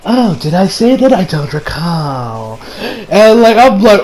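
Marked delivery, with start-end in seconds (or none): 0.0-2.6 mock pompous prick. Shigechi denying the deal to his friends, smug and slow. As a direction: feign innocence like a smug snob. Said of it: "acts like a pompous prick".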